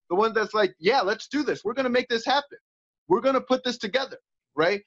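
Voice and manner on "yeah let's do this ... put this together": warrior voice. Retold or imitated. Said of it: "that warrior voice".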